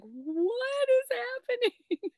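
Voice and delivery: high, slow amazed disbelief. Retold or imitated. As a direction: stretch it out in wonder. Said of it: "I'm like".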